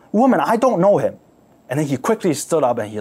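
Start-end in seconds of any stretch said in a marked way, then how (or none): 0.1-1.2 panicked denial. Acted. Peter denies in panic.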